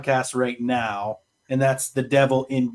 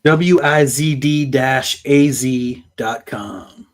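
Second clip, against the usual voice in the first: slow, louder radio DJ read; 5 dB louder, slower than usual. Acted. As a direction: spell it out like a radio DJ. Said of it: "You have that D J voice".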